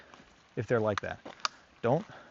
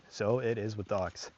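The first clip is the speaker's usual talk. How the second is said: softer, slower echo of the point; quiet, slow repeat; 3 semitones lower, 7 dB quieter, slower than usual. Shown as a demonstration. Trainer repeating the point to viewers, softly and slowly. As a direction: let the repeat sink in quietly. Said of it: "And so it is with dogs".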